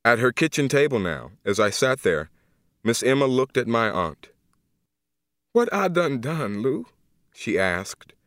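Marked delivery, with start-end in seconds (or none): 5.5-6.9 higher, slow, a touch of tearful grief; an old woman asking why, near crying; close to tears. Acted. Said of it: "she was going to cry".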